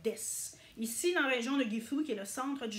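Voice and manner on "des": des, sans le u final, un s sec; u dropped. Shown as a demonstration. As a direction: dites des, le u avalé. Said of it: "ça va être". (des prononcé dess, comme dans la région de Gifu)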